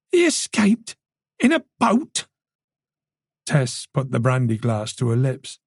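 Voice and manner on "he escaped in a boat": high-pitched incredulous question; stunned, voice leaping up; shocked disbelief. A narrator's reading. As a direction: ask it in shrill, stunned disbelief. Shocked at suspect's escape.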